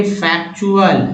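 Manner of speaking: फैक्चुअल slowly, in parts; word sounded out. Shown as a demonstration. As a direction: model फैक्चुअल as fak-chual, drawing it out. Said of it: "words देखिए चुअल".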